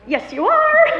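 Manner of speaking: high, loud shout of correction; retold exasperated child's shout; frantic kids. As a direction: imitate frantic children yelling at mom. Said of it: "my kids are getting all frantic".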